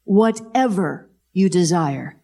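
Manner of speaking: slow, solemn reading of Jesus' words; lightly voiced Jesus, slow and deliberate; voicing Jesus. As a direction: give each word weight, like scripture spoken aloud. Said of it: "this is Jesus".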